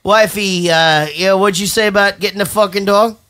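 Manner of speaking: hammed-up host telling a story; mock show host. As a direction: keep up the parody DJ act.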